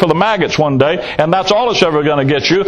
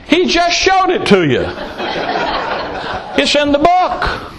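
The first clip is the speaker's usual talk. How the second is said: laughing outburst; 6 semitones higher than usual. Real, not acted. Preacher laughs at excuse.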